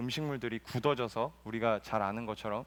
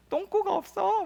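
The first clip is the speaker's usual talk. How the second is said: put-on child quoting; slower than usual. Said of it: "저희 지안이도 막".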